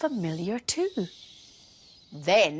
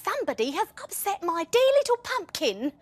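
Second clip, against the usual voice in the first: mummy voice; 10 semitones higher, 3 dB louder than usual. Acted.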